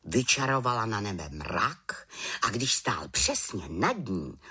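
ordinary delivery

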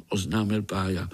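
ordinary delivery

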